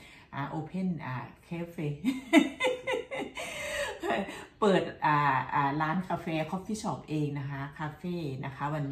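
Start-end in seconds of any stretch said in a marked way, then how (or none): 1.9-4.5 high-pitched giggle at herself; high burst of laughter. Real, not acted. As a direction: laugh out high at her own slip. Laughs at own English. (หัวเราะเสียงสูงขำตัวเอง)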